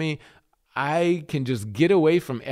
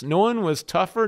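raised pitch, firm emphasis; emphatic, higher-pitched toughness; tough; 5 semitones higher than usual. Shown as a demonstration. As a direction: push it upward to contrast with tender. Contrasts tough with tender.

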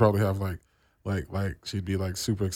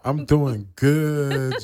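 put-on East Coast accent; 5 semitones higher, 7 dB louder, much slower than usual. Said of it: "No one talks like that".

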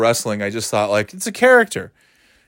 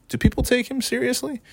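dawning realization; 11 semitones higher, 5 dB quieter than usual. Retold or imitated. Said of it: "I'm like, Ooh".

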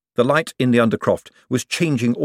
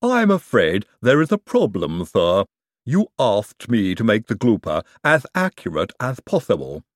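Igor voice. Acted. Igor explains.

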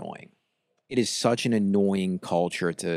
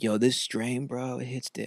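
stoner; 2 semitones higher, 4 dB quieter than usual. Retold or imitated. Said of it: "Hey, like".

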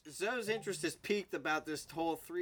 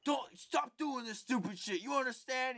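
mock scolding, pitched higher; retold angry yelling; 7 semitones higher than usual. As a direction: imitate a dad telling off a kid, a little higher. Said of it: "he just started yelling at you".

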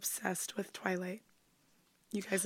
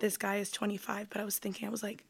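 whispering; 6 dB quieter than usual. Retold or imitated. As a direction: lean in and whisper the creepy detail. Whispered vampire date story.

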